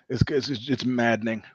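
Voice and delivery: muttered whisper. Real, not acted. Aside while fixing the poster.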